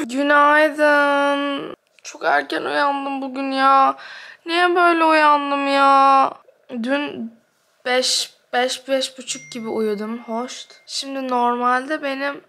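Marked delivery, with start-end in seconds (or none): 0.1-6.3 long, stretched, complaining vowels; drawn-out morning whine. Real, not acted. Vlogger grumbling to viewers about an early wake-up, drawn-out whine. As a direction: whine it out, dragging each ending.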